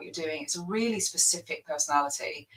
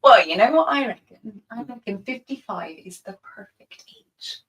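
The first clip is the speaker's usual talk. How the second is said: drawn-out, louder, higher delighted surprise; mock surprise; 5 semitones higher, 10 dB louder than usual. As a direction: savour the number, then flatter him. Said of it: "can we reenact that?".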